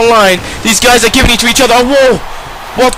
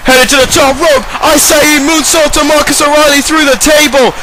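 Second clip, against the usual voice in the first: excited wrestling commentary, rising on the big hits; hyped-up TV wrestling commentator; live play-by-play; 2 semitones higher than usual. Pretend. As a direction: call the match like a ringside announcer. Plays wrestling match commentator.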